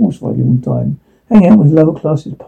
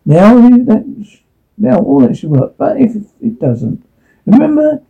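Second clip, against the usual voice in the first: Shan; 2 semitones higher than usual. Acted. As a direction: console a friend in a slightly raised voice. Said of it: "Shan's words of advice appeared in my head".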